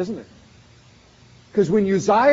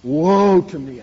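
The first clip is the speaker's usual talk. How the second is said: anguished cry; 6 dB louder, slower than usual. Retold or imitated. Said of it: "I cried".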